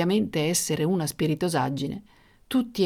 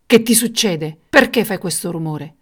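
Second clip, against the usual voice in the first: loud angry questioning; king's raised, accusing voice; furious; 6 dB louder than usual. Acted. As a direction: round on someone, furious. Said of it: "rivolgendosi furioso al nano".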